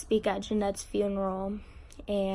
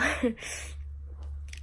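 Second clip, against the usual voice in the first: breaking into tears; 4 semitones higher, 7 dB quieter than usual. Real, not acted. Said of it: "Yeah, there I go".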